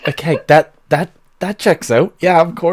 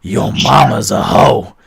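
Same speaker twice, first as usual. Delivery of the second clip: angry denial. Acted. GM voices brawling tavern patron.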